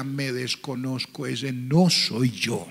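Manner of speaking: soft, very slow broken words; understated tearful lament; mild retold weeping. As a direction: quietly echo a weeping man. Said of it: "él lloraba y decía".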